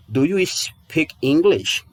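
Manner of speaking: "Do you speak English?" slowly, stress on you; slow example question. Shown as a demonstration. Teacher models the English question slowly for students. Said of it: "Por exemplo".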